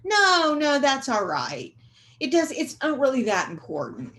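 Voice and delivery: high, sing-song fake reassurance sliding down; mock-soothe them in an exaggerated high voice; hammed-up letting someone off the hook; falsely reassuring. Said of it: "being unkind when you say".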